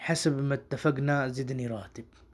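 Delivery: slow, careful Arabic accent. Shown as a demonstration. Teacher showing the Arabic accent, slow. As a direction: say it like a Gulf Arab, slowly. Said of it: "عربی لہجے میں کیسے بولیں گے".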